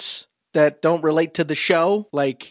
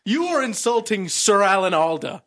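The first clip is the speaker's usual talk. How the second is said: mock indignation; 5 semitones higher than usual. Co-host scolded for the impression, mock indignation. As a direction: play at being offended on the actor's behalf.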